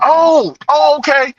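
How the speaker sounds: high, surprised agreement; mock startled officer; startled cop. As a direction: give in, pitched high.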